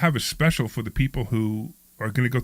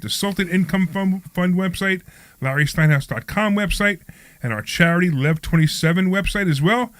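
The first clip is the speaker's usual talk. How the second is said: lively radio host ad read; sponsor read; 4 semitones higher than usual. Acted. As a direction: sell the sponsors with upbeat energy.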